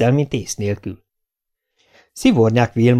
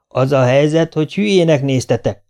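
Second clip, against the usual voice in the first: felháborodott anya; 4 semitones higher, 3 dB louder than usual. Acted. Mother snaps back at stammering son.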